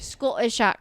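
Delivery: halting attempt at a Scottish accent. Shown as a demonstration. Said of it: "how do I do my Scottish accent".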